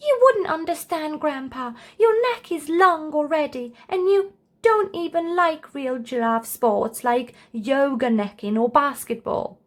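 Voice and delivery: a youngster correcting his grandpa; lightly voiced earnest boy; cheeky child.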